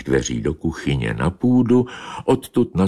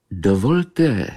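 higher, polite cat voice; a courteous little meow of a greeting; meowing politely; 4 semitones higher than usual. Acted. She-cat to Bobeš, politely meowing. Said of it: "zamňoukala na kocoura Bobeše".

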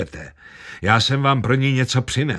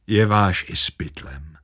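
usual speaking voice

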